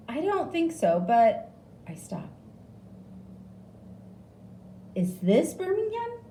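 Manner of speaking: high, uncertain voice; puzzled patient asking; confused. A narrator's reading. Confused patient asking the nurse, high and unsure.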